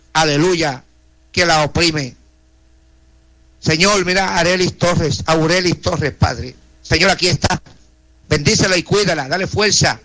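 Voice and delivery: earnest pleading prayer, voice rising and falling; fervent prayer. Acted. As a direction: intercede for each name before God. Radio prayer intercession. (oración ferviente e implorante)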